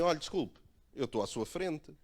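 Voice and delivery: firme e agressivo, cara fechada; mais agressivo. Shown as a demonstration. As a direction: corta a fila com dureza. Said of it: "foi mais agressivo". (pedido ríspido de cara fechada)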